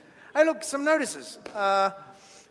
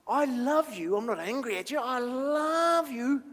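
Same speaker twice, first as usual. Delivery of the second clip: loving reassurance. Acted. Jesus reassuring someone, acted.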